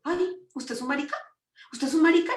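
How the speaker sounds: high-pitched imitation of jeering classmates; mock cruel taunt. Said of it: "muy crueles, los compañeros".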